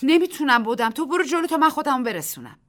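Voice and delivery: loud, high, panting reply; out of breath. Acted. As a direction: gasp it out while running with stones. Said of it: "نفس زنان گفت".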